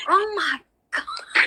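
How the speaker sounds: high, slow, laughing it out. Real, not acted. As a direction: laugh through the words. Laughing at the chat comment.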